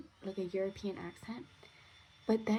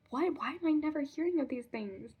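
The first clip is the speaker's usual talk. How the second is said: higher, louder retold disbelief; mock astonishment; 6 semitones higher, 7 dB louder than usual. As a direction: imitate an amazed coworker, pitched up and loud. Retells coworker's astonished reaction.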